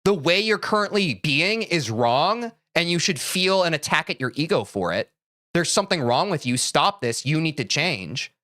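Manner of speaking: a hint of a cold scolding parent; cold lecturing parent. Parent lecturing a crying child, lightly stern. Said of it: "You don't say".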